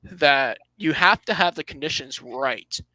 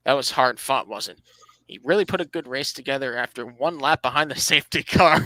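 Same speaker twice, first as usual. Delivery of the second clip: dry mock praise, tongue in cheek; sarcastic. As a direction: pretend to be impressed, sarcastically. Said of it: "I'm just being sarcastic".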